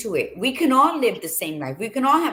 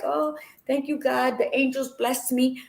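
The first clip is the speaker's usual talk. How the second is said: a higher-pitched, hammed-up thanks to heaven; mock gratitude; 5 semitones higher than usual. Speaker mimics people when something good happens, mock gratitude. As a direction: imitate someone gushing thanks to God. Acted grateful reaction to good fortune.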